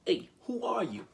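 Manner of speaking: loud, high challenge; cried out. A narrator's reading. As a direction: shout it at the little man. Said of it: "and cried out".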